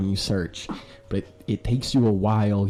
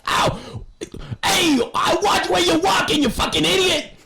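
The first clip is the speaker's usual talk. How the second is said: high, loud, snarling yell at the guard; furious shout; 4 dB louder than usual. Acted. Caged Bellamy yelling at the guard who bumped him, furious. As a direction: scream it at the clumsy guard.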